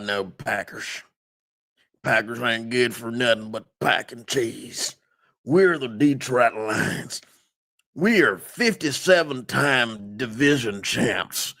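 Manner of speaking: mock Southern good ol' boy rant, puffed-up pride; Southern accent. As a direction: play a proud Southern fan sounding off. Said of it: "I had to do the Southern accent".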